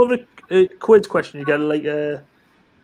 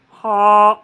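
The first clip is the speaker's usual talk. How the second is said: Miyagi's shout; 3 semitones higher, 6 dB louder than usual. Retold or imitated. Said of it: "he goes".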